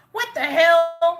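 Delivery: playing a baffled viewer; mock viewer reaction. Voicing confused viewers of Josh's channel, mock disbelief. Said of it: "y'all are probably like".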